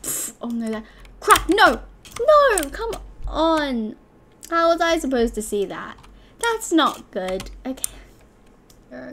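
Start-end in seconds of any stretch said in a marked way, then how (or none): 1.2-3.9 high, loud cries climbing in pitch; panicked yell. Real, not acted. Player losing to the spheres, panicked high yell. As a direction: cry out as it all goes wrong.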